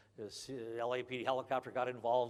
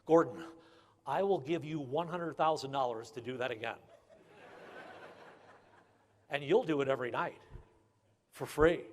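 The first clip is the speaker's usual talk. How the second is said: excited. Retold or imitated. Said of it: "thrilled partner after the chase".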